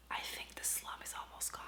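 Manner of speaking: secretive whisper, barely voiced. Real, not acted. Booktuber whispering her reading-slump hope to viewers. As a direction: whisper it like a secret you shouldn't say aloud. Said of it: "but let's just whisper it".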